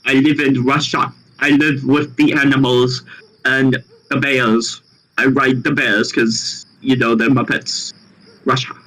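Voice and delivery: put-on a light, joking Russian accent, barely changed from his own voice. Friend shows off his Russian accent on stream, lightly done. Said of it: "This is my Russian accent".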